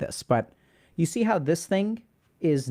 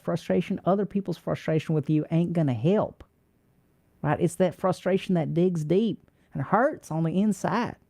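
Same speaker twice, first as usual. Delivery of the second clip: put-on heavy Texas accent; 2 semitones higher than usual. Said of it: "Texas heavy. Let's do that one".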